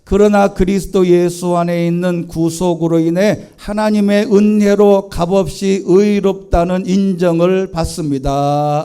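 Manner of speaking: reading scripture aloud. Real, not acted. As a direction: read the verse together with full voice. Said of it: "같이 읽습니다".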